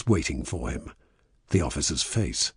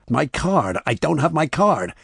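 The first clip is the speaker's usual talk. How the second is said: high, loud cry of alarm; frantic, raised voice climbing higher; panicked shout; 9 semitones higher, 4 dB louder than usual. A narrator's reading. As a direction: shout it out in dismay. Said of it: "he shouted".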